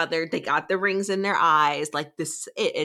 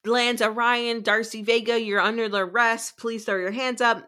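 mock agent voice; 6 semitones higher than usual. Agents arresting the couple, hammed-up higher official bark. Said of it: "the F I B agents are like".

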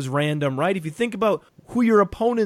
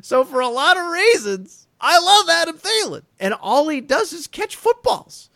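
excited; 12 semitones higher, 5 dB louder than usual. Real, not acted. Host gushing over favourite player.

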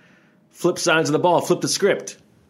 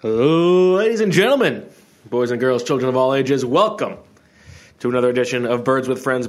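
ringmaster. Pretend. Announces the show like a ringmaster.

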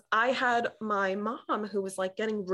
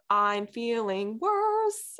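slow, drawn-out mock complaint; retold complaint; 3 semitones higher, much slower than usual. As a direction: drag the words out in protest. Acted complaint to doctor during failing epidural.

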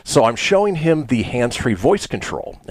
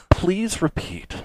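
high, slow automated prompt; AI assistant voice; 8 semitones higher, 4 dB quieter, much slower than usual. Retold or imitated. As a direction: repeat like a patient machine, softly. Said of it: "it's an A I Siri".

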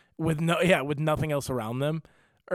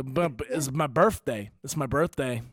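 lightly slurred drunk man imitation; drunk regular. Drunk regular telling two strangers about his birthday, mildly slurred. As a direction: stumble into it like a tipsy bar regular. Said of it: "a regular who's just piss drunk".

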